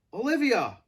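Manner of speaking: loud high call; hush shout. A narrator's reading. Director calls Via from the door, loud. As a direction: call her urgently from the door. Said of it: "hush shouting from the door".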